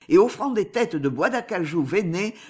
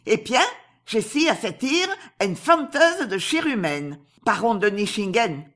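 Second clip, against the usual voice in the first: exclamation moqueuse; 3 semitones higher than usual. Acted. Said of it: "s'écria la terrible Asie".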